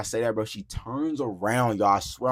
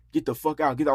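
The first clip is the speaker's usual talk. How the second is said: acted-out yelling, pitched higher; 5 semitones higher than usual. Retelling an argument where he yelled at her, retelling a yell. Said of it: "I'm like yelling at her".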